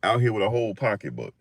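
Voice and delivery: high mocking voice, far from his own; mocking onlookers. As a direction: mimic people laughing at him. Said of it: "Y'all gonna be like".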